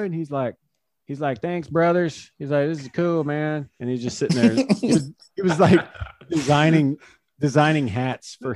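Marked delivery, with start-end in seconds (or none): 1.4-2.3 a light laid-back Josh Hader voice, pitched up; easygoing teammate drawl, lightly done; Josh Hader impression. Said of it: "your Josh Hader impression". 2.7-3.7 Josh Hader impression. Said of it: "your Josh Hader impression".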